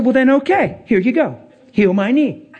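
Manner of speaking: imitated sassy challenge; mock a lady daring him to prove it; retold snippy dare; feisty attitude. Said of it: "Full of attitude, feisty".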